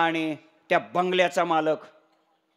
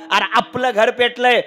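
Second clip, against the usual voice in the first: higher, loud mock lament; weeping father; 4 semitones higher, 6 dB louder than usual. Crying father insists to son the house burns, loud lament. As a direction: repeat the disaster loudly as an upset father. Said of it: "बाप रडतोय".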